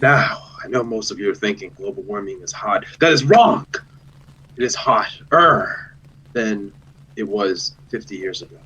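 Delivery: mock-important lecture, stretched key words; hammed-up speech opening with punched words; exaggerated presenter. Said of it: "I would exaggerate the importance of this thing".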